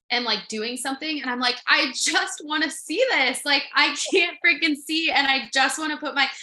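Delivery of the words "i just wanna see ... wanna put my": frustrated venting. Retold or imitated. Frustrated at not seeing.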